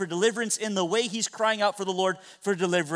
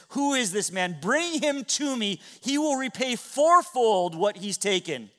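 enraged king; 5 semitones higher than usual. Retold or imitated. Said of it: "is enraged".

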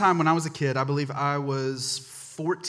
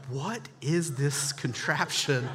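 slow, drawn-out bewilderment; baffled reaction; 3 dB quieter, slower than usual. Retold or imitated. Boy sees a cigarette lighter port on the bag, baffled. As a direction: puzzle over it word by word.

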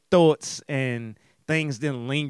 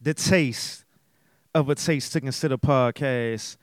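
podcast announcer. Acted.

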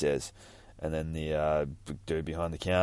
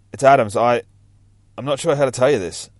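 radio voice; 5 semitones higher, 9 dB louder than usual. Acted. Radio call voiced in comic reading.

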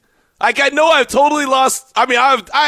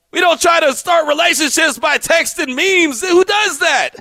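exasperated outburst; 5 semitones higher than usual. Real, not acted. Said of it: "I am fascinated".

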